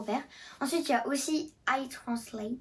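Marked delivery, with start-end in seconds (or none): 1.7-2.5 English app name in a French accent. Real, not acted. Girl showing her phone apps to viewers, French-accented English. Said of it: "désolée pour mon accent anglais".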